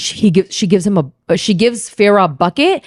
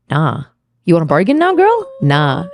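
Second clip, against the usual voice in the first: mock cocky refusal; 5 semitones lower than usual. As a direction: play him toying with her, mostly low. Acted cocky refusal while bargaining.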